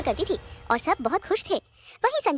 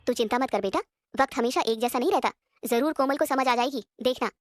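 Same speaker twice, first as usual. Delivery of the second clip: lightly voiced mother; 5 semitones lower than usual. Mother consoling crying daughter.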